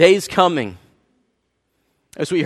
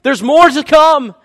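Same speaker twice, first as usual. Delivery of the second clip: complacent thinking; 7 semitones higher, 7 dB louder than usual. Retold or imitated. Pastor mocking people who assume tomorrow comes, mock-complacent. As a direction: mimic the lazy assumption that there's always tomorrow.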